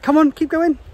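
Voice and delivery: encouraging call up the path. Real, not acted. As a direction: urge her on from behind. Urging child up the path.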